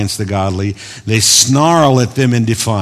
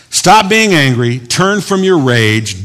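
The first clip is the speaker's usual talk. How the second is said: calmer retake, slow but still raised; gentle plain counsel; 4 semitones higher, 3 dB louder, slower than usual. Shown as a demonstration. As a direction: say it again as gentle advice. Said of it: "I was being angry there".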